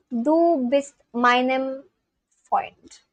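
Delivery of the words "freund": whispered. Real, not acted.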